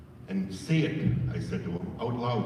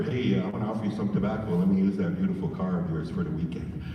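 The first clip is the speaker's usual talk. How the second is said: casual wrong ask; 4 semitones lower than usual. Shown as a demonstration. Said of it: "It's never".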